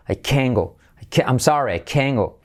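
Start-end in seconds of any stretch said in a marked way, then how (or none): 0.1-0.8 "can" accented, falling, with no T sounded; stress on CAN. Shown as a demonstration. Teacher demonstrating "no puedo ir", "can" stressed. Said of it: "pero acentúo". 1.8-2.4 "can" accented, then falling into "go"; stress on CAN. Shown as a demonstration. Teacher repeating the negative example, "can" stressed. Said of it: "pero acentúo".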